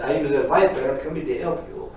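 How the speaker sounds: booming punchline voice; hammed-up boom; loud mock villain. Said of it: "She said".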